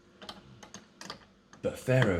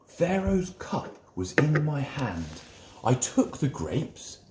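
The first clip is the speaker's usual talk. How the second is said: a lightly raised, eager voice for the wine taster; a storyteller's wine taster, a bit higher than the narration; wine taster telling his dream; 4 semitones higher than usual. Acted.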